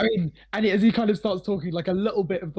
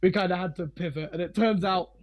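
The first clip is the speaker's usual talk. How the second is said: put-on a light pirate accent creeping in; pirate twinge. Old pirate reminisces to visitors about his seafaring days, slight pirate accent. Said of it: "you can hear a bit of a pirate twinge".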